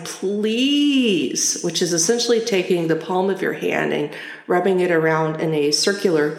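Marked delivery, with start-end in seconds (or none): 0.0-1.6 drawn-out, higher "please"; mildly hammed-up emphatic begging. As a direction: beg with one long "please". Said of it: "So I would emphatically sign".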